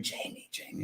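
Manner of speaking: faint whispered name, barely voiced; a mother's whispered call from beyond. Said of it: "And she whispered".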